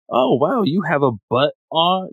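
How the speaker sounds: high-pitched mock wonder; innocent amazement. Boy walking in on her bath, innocent mock amazement. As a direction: imitate a naive boy's discovery.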